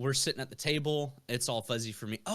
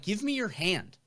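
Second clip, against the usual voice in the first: bartender; 9 semitones higher, 4 dB louder than usual. Retold or imitated. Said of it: "they're like".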